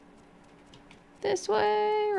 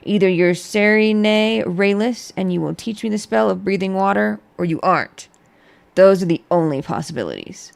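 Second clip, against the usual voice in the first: stiff; 3 semitones lower, 6 dB louder than usual. Acted. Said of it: "he said stiffly".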